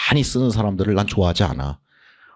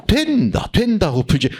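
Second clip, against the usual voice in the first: confident self-talk; 8 semitones higher than usual. Shown as a demonstration. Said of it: "당황스럽게 나와도".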